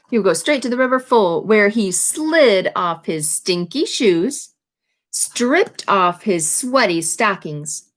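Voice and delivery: slow, savoured read-aloud of each phrase; reading to children. A narrator's reading. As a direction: linger on every sticky, stinky word. Reads alliterative list slowly.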